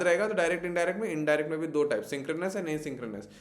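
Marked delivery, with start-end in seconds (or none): 2.0-3.3 slow, deliberate terms for students; teacher dictating key terms slowly; slow for memorising. Shown as a demonstration. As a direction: spell the two words out slowly so they stick. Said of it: "तो please ये words याद रखिएगा".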